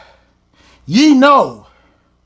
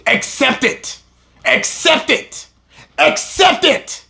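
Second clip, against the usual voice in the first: building insistence; 3 semitones higher than usual. Real, not acted. Repeated, building up.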